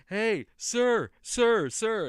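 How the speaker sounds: high calling voice, imitating the girl. Girl at the corner calls after the passing man, high and insistent. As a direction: call out sharply to get his attention. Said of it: "she starts yelling to me".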